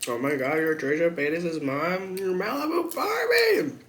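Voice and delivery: rising to a very high, loud shriek; excited fan quote. Retold or imitated. Omegle stranger recognizing her mom, shrieking excitedly. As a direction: gush like a starstruck fan, peaking on Barbie. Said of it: "That's what one s-, person said".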